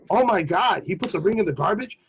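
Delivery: imitating an appalled girlfriend, swooping pitch; disbelieving question, then an exaggerated gasp of words; mock scandalized. Repeats the girlfriends' shocked reaction.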